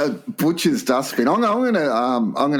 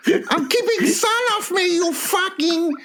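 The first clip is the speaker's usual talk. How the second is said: very high, slow mock Asian accent; hammed-up, high-pitched Asian accent; slower than usual. Co-host does the requested accent for an umbrella user, mock Asian accent. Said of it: "if you want me to, I will".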